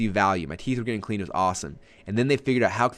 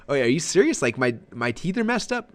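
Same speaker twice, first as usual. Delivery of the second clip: alarmed surprise; 5 semitones higher than usual. Retold or imitated. Shocked by crowding comment.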